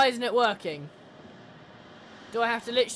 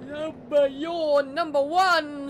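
yawning; 3 semitones higher, much slower than usual. Real, not acted. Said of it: "Yawning a lot this morning".

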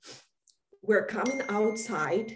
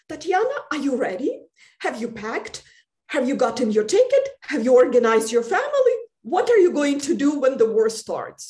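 urgent warning; 4 semitones higher, 6 dB louder, faster than usual. Retold or imitated. Friends urging her to pack.

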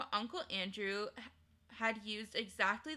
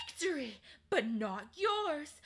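cold answer; 6 semitones higher, 4 dB louder than usual. Acted. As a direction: turn the word back on her coldly. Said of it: "said I".

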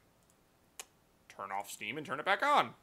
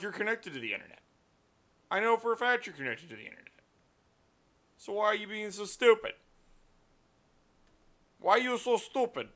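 exasperated scolding; 7 semitones higher, 4 dB louder than usual. Real, not acted. Scolding the computer, quoted rant.

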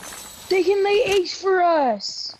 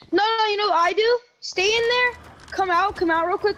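excited; 6 semitones higher than usual. Real, not acted. Excited plan for chicken.

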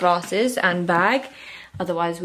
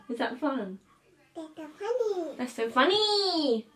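put-on baby talk; 8 semitones higher, 8 dB quieter than usual. Playing with toddler.

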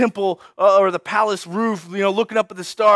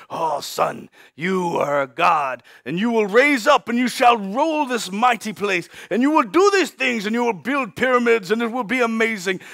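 lightly voiced regal proclamation, stretched opening; grand Pharaoh grandfather. Pharaoh tells his young grandson he is a god, grandly. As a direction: proclaim it like a doting royal patriarch. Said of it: "his grandfather, you know, Pharaoh".

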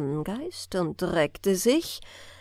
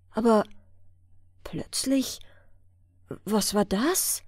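whisper. A narrator's reading. Narrator builds sudden suspense.

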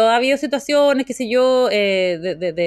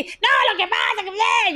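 mocking calm arguer; 13 semitones higher, slower than usual. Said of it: "y uno así".

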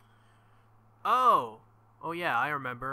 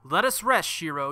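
Saber's voice; 2 semitones higher, 8 dB louder than usual. Acted. Saber voiced, urging rest.

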